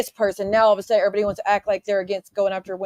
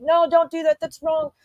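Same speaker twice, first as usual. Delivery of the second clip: mocking fake concern; 7 semitones higher, 3 dB louder than usual. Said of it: "everybody wants to pull out the stops to be like".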